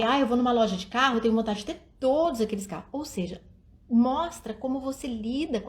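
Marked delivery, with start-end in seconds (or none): 0.0-2.9 the father's take, said faster; lightly voiced dad wishing for every car; quicker dad voice. Shown as a demonstration. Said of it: "Ou senão o pai".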